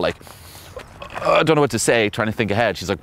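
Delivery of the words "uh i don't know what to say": mock anxious stammer; stressed out. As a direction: fumble it like a flustered guy. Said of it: "And if you're all stressed out".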